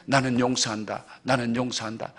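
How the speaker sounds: low-pitched mock self-declaration. Patient resolving to forgive through tears, imitated as a low self-declaration. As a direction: declare it to yourself, pitched well down. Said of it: "그런 말을 하면서 울면은".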